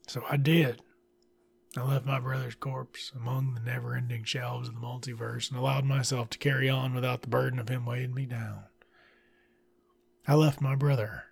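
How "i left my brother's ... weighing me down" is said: whisper. Pretend. Mock dramatic book narration.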